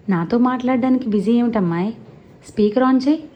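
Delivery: forceful grandmother. Acted. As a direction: command it like a grandma who won't be ignored. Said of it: "ధాటిగా వినిపిస్తోంది".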